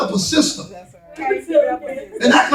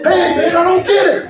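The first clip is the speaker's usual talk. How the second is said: mock complaining husband; 4 semitones higher than usual. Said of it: "she ain't worked".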